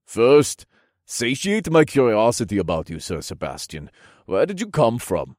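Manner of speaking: formal royal character voice; regal king, inquisitive. Acted. King asking Sir Sebastian his origins, regal curious voice. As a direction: question him with kingly command.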